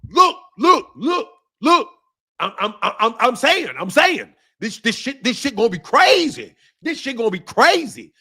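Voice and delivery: light mimicry of an excitable pundit; stuttering hype-man impression; Tim Bradley impression. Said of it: "this is my Tim Bradley impersonation".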